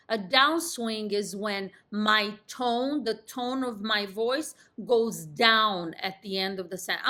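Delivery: confident delivery, pitch dropping at "sentence"; downswing. Shown as a demonstration. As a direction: let the tone fall on "sentence". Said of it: "I'm doing it. I'm exemplifying".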